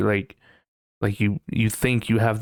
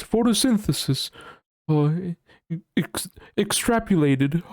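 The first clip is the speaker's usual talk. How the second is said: proud, higher pompous pronunciation of Photosynthesis; showing off big word; 6 semitones higher than usual. Pretend. Streamer showing off big words, proudly higher. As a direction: announce Photosynthesis like a show-off. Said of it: "toss out some other big words".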